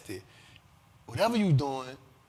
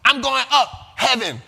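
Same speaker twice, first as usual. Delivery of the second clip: loud punchy rapper-style one-word tags; imitating a rapper; 6 semitones higher, 6 dB louder than usual. Host mimicking a rapper's old catchphrase lines, loud and punchy. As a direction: snap each line then drop the tag word. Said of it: "when she used to talk like that".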